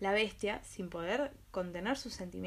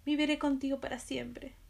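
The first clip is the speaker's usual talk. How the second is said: higher, tearful sobbing promise; 5 semitones higher than usual. Acted. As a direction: speak it through mild sobs. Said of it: "le dijo entre sollozos".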